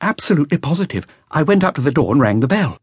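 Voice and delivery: put-on a nervous young witness reporting to police; a hint of an anxious young musician; young flautist. Flautist answers Maigret.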